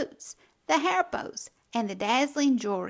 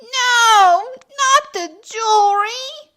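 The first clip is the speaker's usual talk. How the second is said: high, loud screech; panicked cry to save the jewelry; 10 semitones higher, 10 dB louder, slower than usual. A narrator's reading. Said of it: "I screeched".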